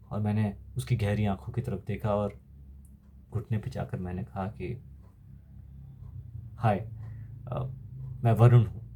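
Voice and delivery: put-on calm a frightened child softly; gentle reassurance. Soldier recalls gently reassuring the child.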